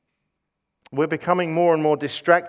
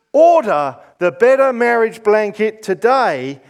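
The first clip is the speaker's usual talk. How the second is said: home shopping host; 3 semitones higher, 4 dB louder than usual. Pretend. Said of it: "Shopping channels on T V".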